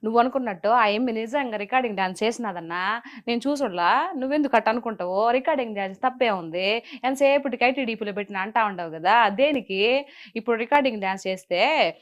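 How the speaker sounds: lightly performed Nellore dialect scolding; mock-chiding in earthy Nellore Telugu; Nellore slang rant. Shown as a demonstration. Commentator replaying her viral video to the interviewer, in Nellore slang. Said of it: "నేనేం మాట్లాడాను?".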